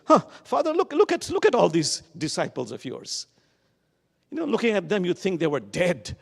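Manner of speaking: put-on child's complaint. Child complaining to his father.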